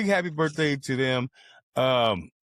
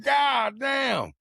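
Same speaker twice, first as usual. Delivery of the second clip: shocked shout; 11 semitones higher than usual. Retold or imitated. Reacting to the friend's cruel joke, high shocked shout. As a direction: blurt it out in disbelief.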